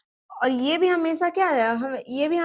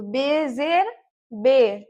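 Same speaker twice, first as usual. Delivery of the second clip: slow spelling drill; 3 dB louder, much slower than usual. Shown as a demonstration. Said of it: "फिर हम बे पे देंगे जेर".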